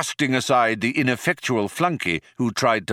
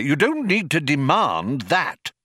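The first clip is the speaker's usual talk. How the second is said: raised, irritated correction; angry explaining; 6 semitones higher than usual. A narrator's reading. Older man corrects his colleague, mildly angry explaining. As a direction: put your colleague right, mildly cross. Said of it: "he explained angrily".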